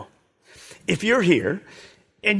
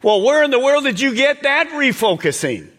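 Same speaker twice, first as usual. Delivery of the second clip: high, loud incredulous voice; disbelieving disciples; 10 semitones higher, 4 dB louder than usual. Acted. Disciples protest to Jesus in loud, high disbelief. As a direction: act stunned that he would leave them. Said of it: "imagine the disciples saying to Jesus".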